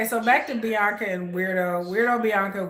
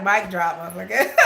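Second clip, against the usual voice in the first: laughing; 4 dB louder than usual. Retold or imitated. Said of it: "Christine was like".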